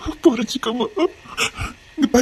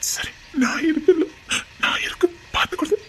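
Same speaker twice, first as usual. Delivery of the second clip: soft whisper; 6 dB quieter than usual. Acted. Husband whispering comfort to his crying wife. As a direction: soothe her without being heard.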